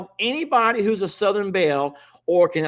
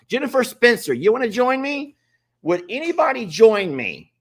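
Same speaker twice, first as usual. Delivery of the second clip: higher, louder eager call to a viewer; eager invite; 7 semitones higher, 3 dB louder than usual. Real, not acted. Host eagerly invites a viewer onto the live, raised and higher. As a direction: pitch it up and invite her in brightly.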